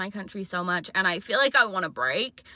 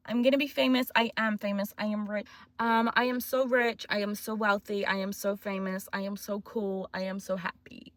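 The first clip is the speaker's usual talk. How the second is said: manifesting affirmations. Pretend. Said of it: "hope the universe was listening to that".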